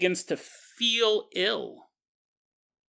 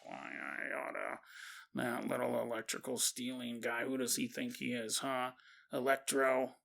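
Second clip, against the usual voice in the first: put-on grumbling old woman muttering under her breath, much softer; muttered threats; 5 semitones lower, 14 dB quieter than usual. Grandma muttering threats at Robbie under her breath. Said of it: "she's muttering threats to Robbie under her breath".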